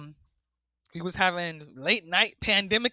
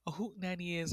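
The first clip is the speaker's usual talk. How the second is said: soft, hushed retelling; whisper; 9 dB quieter, faster than usual. Retold or imitated. Wife explaining to sleepy husband, softly imitated whisper. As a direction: start explaining under your breath. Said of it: "And I whispered".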